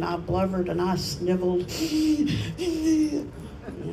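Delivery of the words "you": laughing. Real, not acted.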